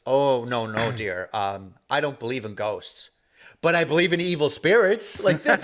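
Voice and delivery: lightly voiced elderly lady turning serious; solemn old lady. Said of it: "she goes".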